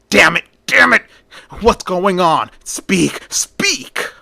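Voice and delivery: high, loud, frantic yelling; furious shout. A narrator's reading. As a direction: shake answers out of her in a rage. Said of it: "begins to violently shake her".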